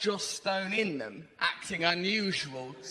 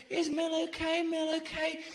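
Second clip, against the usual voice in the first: pressing eagerly; 8 semitones higher than usual. Retold or imitated. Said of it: "pressing about Mel".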